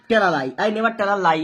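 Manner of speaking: very slow, every word laid out; slow dictation. Shown as a demonstration. Teacher dictating the finished sentence, very slow. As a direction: dictate the full sentence slowly. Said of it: "तो हम simply लिख देंगे".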